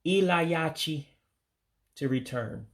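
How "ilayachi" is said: Ilayachi drawn out slowly, syllable by syllable; model pronunciation. Shown as a demonstration. Teacher giving the verb to return, Ilayachi slow and careful. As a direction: sound out Ilayachi slowly and clearly. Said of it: "you would say".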